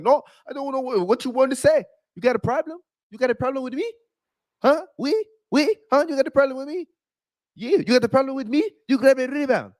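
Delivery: high, confrontational mock Rudy; Rudy Gobert angry. Imitating Rudy confronting Kyle Anderson, high and taunting. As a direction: square up and taunt, pitched high. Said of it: "He's like".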